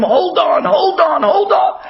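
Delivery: rising, urgent repeated plea; retold screaming. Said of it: "he's screaming to him".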